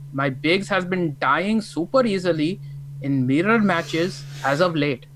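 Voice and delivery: mock British accent, slow and sing-song; hammed-up British accent that slips towards Indian; drawn-out, badly faked British accent. Shown as a demonstration. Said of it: "And this is my British accent".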